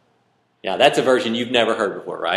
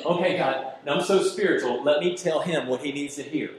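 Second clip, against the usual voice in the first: mock pious prayer; 3 semitones higher than usual. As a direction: play the show-off prayer, mildly mocking. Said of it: "I don't wanna get up here and go".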